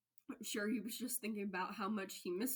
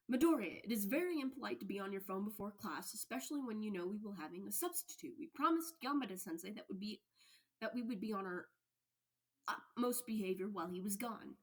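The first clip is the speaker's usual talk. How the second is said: louder, stiff and proper scolding; stern class rep Ida; 3 semitones higher, 4 dB louder than usual. Acted. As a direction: lecture him like a rule-obsessed class president. Ida scolds Midoriya before class.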